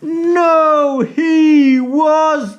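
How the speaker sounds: high and slow, spelling it out; emphatic storyteller. A narrator's reading. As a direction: draw each word out for the kids. Storyteller answering the children.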